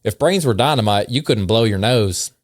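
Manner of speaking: put-on light Southern accent for the insults; mild put-on Southern accent. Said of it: "read these in a Southern accent".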